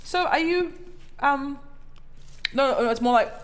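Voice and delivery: high, chirpy questioning voice; curious acquaintance voice. Retold or imitated. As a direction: play a nosy acquaintance. Acting out people questioning her.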